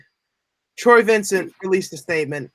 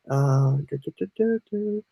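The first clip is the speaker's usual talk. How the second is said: filler humming; 3 semitones lower, 6 dB quieter than usual. Real, not acted. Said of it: "Filler time".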